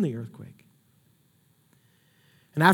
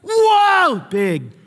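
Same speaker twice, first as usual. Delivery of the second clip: much higher, shouted exclamations; thrilled shout; 11 semitones higher, slower than usual. Retold or imitated. Preacher voicing Elijah's hoped-for revival, high and shouting. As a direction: proclaim the big show.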